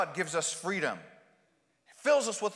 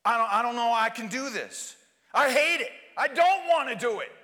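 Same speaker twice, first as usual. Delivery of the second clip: anguished plea; 3 semitones higher, 4 dB louder than usual. Acted. Grieving person's prayer.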